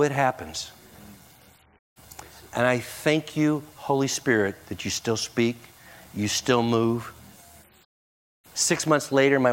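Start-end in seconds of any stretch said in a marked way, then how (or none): 2.5-7.1 soft, lower, reverent thanks; hushed prayer. Real, not acted. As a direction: pray it quietly, letting each phrase settle. Turns to pray thanks to God.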